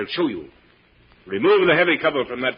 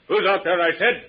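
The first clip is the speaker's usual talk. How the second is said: demanding call; 7 semitones higher than usual. Acted. Repeats demand, louder.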